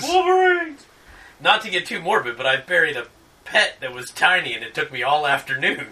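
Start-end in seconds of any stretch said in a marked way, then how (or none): 0.0-0.8 sharp high yell, louder; battle cry shout. Pretend. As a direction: shout it back even higher.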